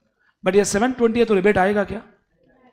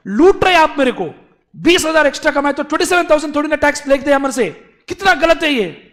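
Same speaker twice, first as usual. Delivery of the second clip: loud, high, fast whining protest; mock crying complaint; 6 semitones higher, 7 dB louder, faster than usual. Taxpayer Mister A wailing at the government, mock tearful. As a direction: wail that you're being robbed, hammed up. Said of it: "A is in complete tears".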